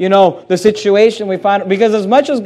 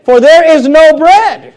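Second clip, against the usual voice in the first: whiny complaint; 7 semitones higher, 6 dB louder, slower than usual. Retold or imitated. Preacher voicing complaining Israelites.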